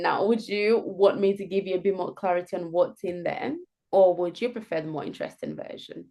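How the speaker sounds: gentle, soft, even delivery. Shown as a demonstration. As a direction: ask it softly and evenly. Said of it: "not my very happy tone, but also very soft tone".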